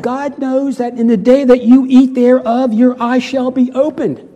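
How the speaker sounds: a hint of the smooth-talking devil; mock serpent voice. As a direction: tempt with a grand promise. Quoting the serpent, verse five.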